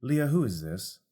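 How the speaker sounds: demanding who this stranger is; suspicious Candle. Acted. Candle questioning the bard.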